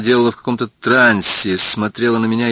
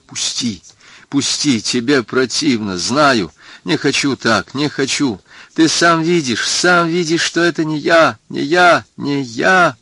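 higher, pleading, mildly tearful; tearless sobbing cry; 5 semitones higher, slower than usual. Acted. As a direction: push him away with a cracking plea. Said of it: "рыдая без слёз, кричала".

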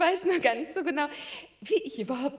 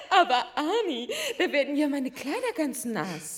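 giggly mock protest. Marilyn mock protest, laughing.

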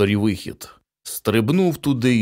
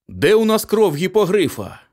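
higher, a touch exasperated; irritated question; 9 semitones higher than usual. A narrator's reading. Father rummaging in the cupboard, mildly irritated. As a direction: snappish hunt for the potion. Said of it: "роздратовано запитав містер Ді".

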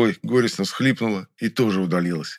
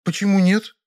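high, louder, put-out Vera; frowning girl; 12 semitones higher, 4 dB louder than usual. A narrator's reading. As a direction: demand a reason, displeased. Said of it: "нахмурилась девушка".

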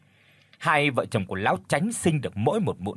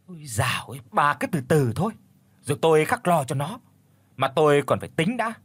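haughty village chief; 2 semitones higher than usual. Acted. Rich chief reassures his wife, boastful and dismissive. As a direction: brush her off and brag about your noble house. Husband brushes off wife's worry.

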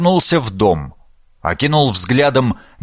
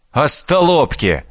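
growled; 3 semitones higher than usual. Acted. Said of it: "рыкнул Фёдор Георгиевич".

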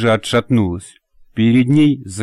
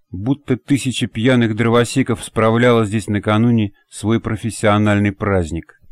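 plain reading voice

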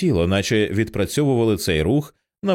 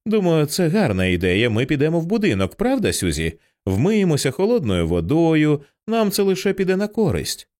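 higher, lilting, eager agreement; soothing mother, pitched up and relieved; 6 semitones higher than usual. A narrator's reading. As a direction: coax a child along with audible relief. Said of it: "у тоні Кім відчувалося полегшення".

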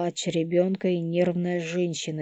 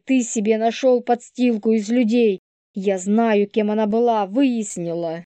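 put-on higher, louder, furious young woman; hysterical young woman; 4 semitones higher, 7 dB louder than usual. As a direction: lash out at them all. Polina voiced by narrator.

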